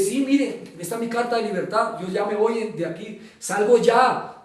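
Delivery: insist, pushing back at a doubter; insistent. Retold or imitated. Prisoner showing release letter to lawyer, insistent. Acts himself insisting he is free.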